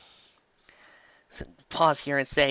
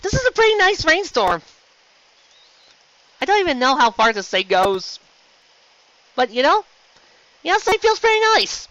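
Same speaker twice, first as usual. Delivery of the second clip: much higher, louder, blissful; dreamy rain lover; 12 semitones higher, 5 dB louder than usual. Acted. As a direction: sigh into the rain, high. Comic reverie in the rain.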